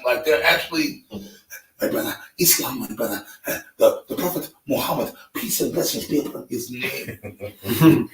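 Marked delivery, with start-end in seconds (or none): 1.8-8.1 imitating an Arab accent. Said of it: "with an Arab accent".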